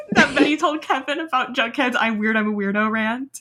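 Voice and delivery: laughing through the words; can't stop laughing while recapping. Real, not acted. Laughing while recapping the Riverdale episode to her co-host.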